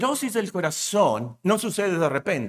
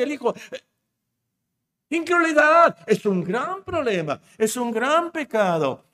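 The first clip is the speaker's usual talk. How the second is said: fervent preaching; 6 semitones higher than usual. Real, not acted. Preacher listing with rising fervour.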